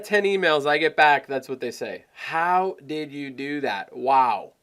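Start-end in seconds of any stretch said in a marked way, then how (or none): 2.1-4.5 slow, awestruck retelling; imitating amazed clients. Client replying to the email, blown away. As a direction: draw it out like a stunned client. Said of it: "They're blown away by it".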